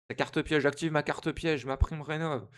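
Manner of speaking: card duel hero. Pretend. Mock card duel trap activation.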